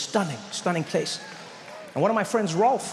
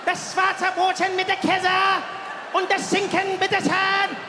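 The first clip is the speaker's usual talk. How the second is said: much higher, slow, barked shouted German; Führer-like German; slower than usual. Retold or imitated. Ordering a sandwich at the counter, shouted like a dictator. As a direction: bark the order like a dictator at a rally. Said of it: "has a certain, uh, Führer feeling".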